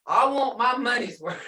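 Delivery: joking demand tipping into laughter; amused, breaking into a laugh; laughing mock demand. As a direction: play the demanding boss, about to crack up.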